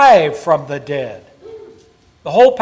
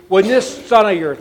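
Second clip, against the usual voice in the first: "this" held long on "When this son of yours"; disowning stress; 2 semitones higher, 3 dB louder than usual. Shown as a demonstration. Preacher voicing the son disowning his brother, pointed. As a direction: lean on "this" to push the son away. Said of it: "I'm not claiming him".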